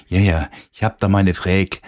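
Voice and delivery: "Frage" said as "Fräg", Vogtland dialect; broad Vogtland dialect with clipped "Frage". Retold or imitated. DJ imitating a Vogtland local asking a question, Vogtland dialect. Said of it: "Im Vogtland gibt's auch so ihre Weltsprachen".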